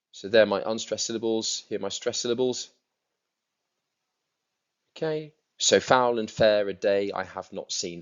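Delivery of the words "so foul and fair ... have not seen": louder, meter-marked Shakespeare line; iambic recitation. Shown as a demonstration. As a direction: declaim it on the da-DUM beat. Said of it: "That is iambic pentameter".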